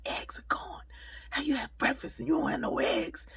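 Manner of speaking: high, loud, indignant complaint about the eggs; retold angry yell. Hungry man yells at the server, high and loud. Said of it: "he was just yelling at me".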